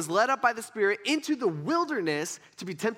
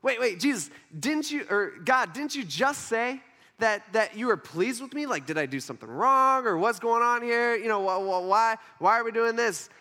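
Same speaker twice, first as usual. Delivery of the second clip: higher, stumbling questions; mildly bewildered protest; 3 semitones higher than usual. Acted. Jesus asking God what went wrong, mildly bewildered. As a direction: pile up mock-worried objections. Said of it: "I would have some questions".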